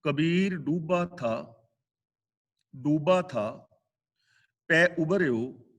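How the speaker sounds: very slow, measured scripture recital with long pauses; slow verse recitation. Shown as a demonstration. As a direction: intone each phrase apart, reverently. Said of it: "ਅਗਲਾ ਬਚਨ".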